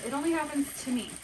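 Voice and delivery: high, fast self-pity; self-pitying whine. Real, not acted. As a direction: wail it's always me. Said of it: "This girl right here".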